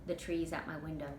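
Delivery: usual speaking voice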